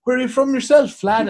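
high, loud, over-keen chatty passenger; enthusiastic. Retold or imitated. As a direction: imitate a mate eagerly quizzing the driver. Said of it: "so enthusiastic".

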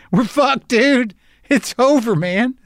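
very high, squeaky lament; high-pitched doomed whimper, half laughing; mock despair. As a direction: wail it in comic hopelessness. Mock despairing message, breaking into laughter.

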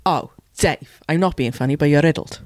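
lightly voiced Welsh Nessa; deadpan Welsh put-down, barely voiced; Nessa impression. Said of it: "my Nessa impression".

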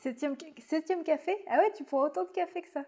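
disbelieving question, quick; can't believe the coffee count; surprised. Real, not acted. Host amazed at seventh coffee.

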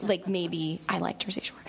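breathy whispered confession; whispered aside. Real, not acted. She admits to the audience she likes Jersey Shore, whispering. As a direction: whisper it like a guilty secret.

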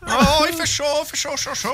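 high complaining voice. Pretend. Sunbathing chicken voice.

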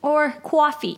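slow New York "coffee"; New York accent. Shown as a demonstration. Offering another American word, New York accent. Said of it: "That's quite New York".

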